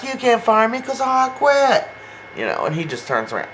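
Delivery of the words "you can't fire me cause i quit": much higher mock hurt voice; imitating Javi. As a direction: play the hurt boyfriend, hammed-up. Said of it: "You know, he's like".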